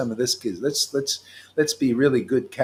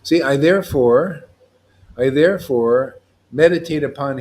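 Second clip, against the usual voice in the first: louder, measured recitation of a sacred verse; solemn verse recitation; 4 dB louder than usual. Acted. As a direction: intone the verse like a prayer.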